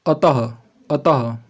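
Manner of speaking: slow अतः with a clear breathy h at the end; visarga demo. Shown as a demonstration. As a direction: stretch out अतः and let the final ह sound be heard. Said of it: "last में ह type से ध्वनि सुनाई दे रही है". (विसर्ग की ध्वनि साफ़ सुनाते हुए धीमे से अतः)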